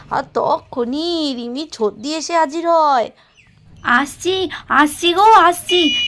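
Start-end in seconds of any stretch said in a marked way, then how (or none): 3.8-5.9 calling out. Acted. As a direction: shout আসছি toward the gate. Calling out to door. (গেটের দিকে জোরে ডাক)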